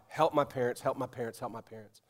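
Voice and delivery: quiet plea, fading with each repetition; retold begging prayer. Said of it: "she starts praying and begging God".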